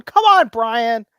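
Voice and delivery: loud, slow "come on"; mock exasperated call-out. Real, not acted. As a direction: drag it out at Brian. Teasing call-out.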